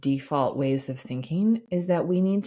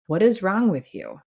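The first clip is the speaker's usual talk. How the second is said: berating inner critic. Retold or imitated. Doctor voicing her inner critic, quick mock scolding. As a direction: scold yourself the way the critic does. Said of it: "blaming myself, beating myself".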